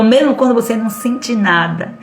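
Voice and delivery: ordinary talk, nothing marked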